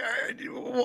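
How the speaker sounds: high, halting mock stammer of the detective; mock flustered witness. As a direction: act out his stalling, high-pitched. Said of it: "he's like".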